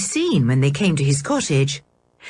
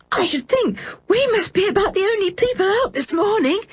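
breathless, much higher voice against the wind; gasping; faster than usual. A narrator's reading. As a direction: gasp the words out as rain stings your face. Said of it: "gasped George".

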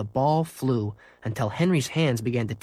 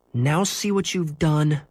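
mild scolding; 4 semitones higher, slower than usual. Acted. Henry scolds dog.

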